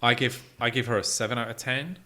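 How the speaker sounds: usual speaking voice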